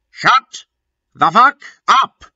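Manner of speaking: screeching, high-pitched yell; high furious shout. A narrator's reading. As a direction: bark it out shrill and loud. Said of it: "shouted Cornelia Fuck".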